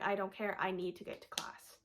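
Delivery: loud and insistent, no patience left. Retold or imitated. Brushing off a friend's counselor offer, loud and insistent. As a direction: insist on class over the counselor. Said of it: "And I was like".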